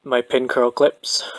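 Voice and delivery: breathless, winded from long work; out of breath. Real, not acted. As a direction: talk while slightly winded. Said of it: "I'm getting out of breath".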